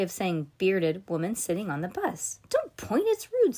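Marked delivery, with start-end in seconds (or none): 2.5-3.5 high scolding. Acted. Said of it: "said Cass".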